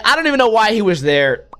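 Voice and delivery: ordinary talk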